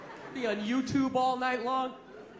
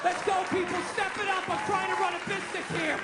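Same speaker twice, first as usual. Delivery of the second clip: higher, hurrying the shoppers along; mock impatient owner; 5 semitones higher than usual. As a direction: rush the customers like a fed-up boss. Barking at customers as owner.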